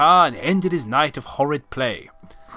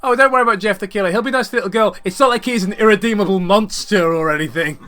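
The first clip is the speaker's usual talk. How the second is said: sarcastic; 4 semitones higher, 4 dB louder, faster than usual. Acted. Sarcastic mock reassurance.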